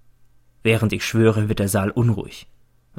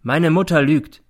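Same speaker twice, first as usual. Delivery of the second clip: slow, loud and deliberate; the son slowly accusing his mother; 6 semitones higher, 6 dB louder than usual. A narrator's reading. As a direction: drag each word out. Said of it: "sagt er langsam".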